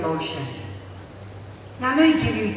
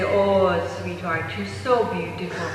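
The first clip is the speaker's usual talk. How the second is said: parentese; 2 semitones lower than usual. Acted. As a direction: coo gently as if to a baby. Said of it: "they call it parentese".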